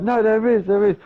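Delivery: high-pitched, insistent retort; retold aggressive denial. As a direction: act out an aggressive, insistent contradiction. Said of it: "I started getting really aggressive".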